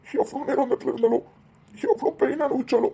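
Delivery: tearful, grieving questions; weepy, pained disbelief; crying. Acted. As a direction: lament to mum through tears. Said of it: "ரெண்டு பேரும் அழாதீங்க".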